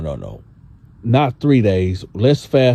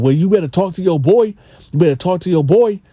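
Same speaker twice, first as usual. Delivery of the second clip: Gene voiced; 7 semitones higher, faster than usual. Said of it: "He was like".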